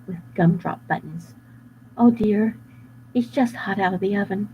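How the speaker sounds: lightly voiced worried baker; a hint of a fretful baker; fussy baker voice. Baker describing the runaway cookie, fretful.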